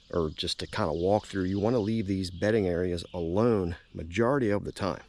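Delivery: winded from the climb; out of breath. Real, not acted. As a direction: breathe hard between words. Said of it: "Now I'm out of breath".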